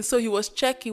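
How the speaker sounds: normal talking voice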